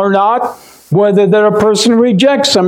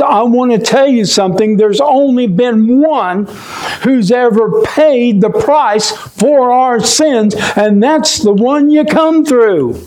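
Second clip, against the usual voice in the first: fervent preaching; 4 semitones higher than usual. Real, not acted. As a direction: drive the point home from the pulpit. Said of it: "I hate to get so radical about it".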